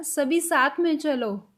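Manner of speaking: put-on slow, gentle instruction to kids; telling children. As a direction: call the children along slowly. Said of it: "अब हमने बच्चों को बोला". (बच्चों से कहते हुए, धीमे)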